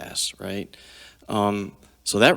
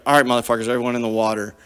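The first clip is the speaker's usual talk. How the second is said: retold barked order; 3 semitones higher, 6 dB louder, much faster than usual. Leader ordering the men.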